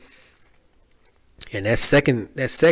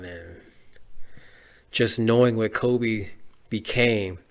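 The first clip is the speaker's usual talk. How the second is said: grieving; 6 dB quieter than usual. Real, not acted. Grieving Kobe's death.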